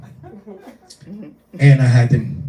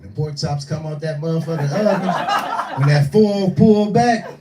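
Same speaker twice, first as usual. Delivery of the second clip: savoring; 6 semitones higher than usual. Acted. Savoring food description.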